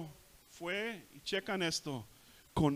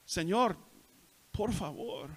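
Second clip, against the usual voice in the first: higher, drawn-out earnest plea; humble pleading; 4 semitones higher than usual. Acted. Preacher models coming to Jesus in prayer, humble pleading. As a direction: beg the Lord humbly. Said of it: "hay que venir con Jesús con humildad".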